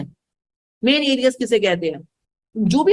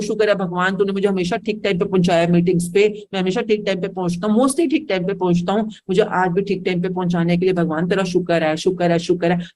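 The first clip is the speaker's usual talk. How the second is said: lower, thankful murmur to God; grateful prayer; 4 semitones lower than usual. Shown as a demonstration. Teacher shows a thankful prayer, low and grateful. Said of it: "और अब thankful भी हूँ".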